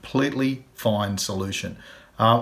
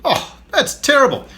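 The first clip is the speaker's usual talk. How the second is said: much higher and louder mock sympathy; sympathetic bloke; 8 semitones higher, 8 dB louder than usual. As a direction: play the clueless kind stranger. Bloke answers in the joke.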